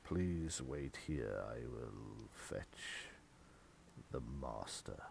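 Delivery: very low, slow and soft servant voice; slow, deep, hushed butler; gloomy butler. Acted. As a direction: drag each word like a weary old servant.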